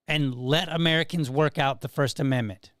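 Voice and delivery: lightly voiced radio announcer read; a hint of broadcast voice. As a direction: read it like a radio host addressing the president. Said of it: "my good radio voice".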